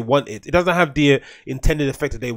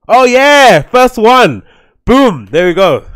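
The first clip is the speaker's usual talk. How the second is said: louder, higher victorious shouts; triumphant cheer; 7 semitones higher, 12 dB louder, much slower than usual. Real, not acted. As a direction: celebrate finding it. Finds the video first try.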